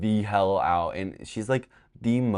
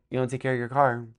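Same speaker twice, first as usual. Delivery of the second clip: higher nagging mom imitation; mock scolding; 5 semitones higher, faster than usual. Mom accuses her kid about the car, mock scolding. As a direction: lightly mimic a parent's reproach.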